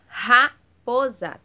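"Raposa" slow and loud, R drawn out; strong prolonged R. Shown as a demonstration. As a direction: stretch out the R in "Raposa". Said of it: "Teve um som forte, mais prolongado". ("Raposa" devagar e alto, R forte e prolongado)

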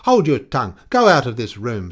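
loud, high angry command; screamed. A narrator's reading. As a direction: scream at him to obey. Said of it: "screamed Coyote".

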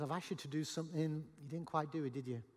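soft, gentle questioning. Acted. Jesus questioning disciples who failed him, gentle tone. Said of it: "Or was it a gentle tone?".

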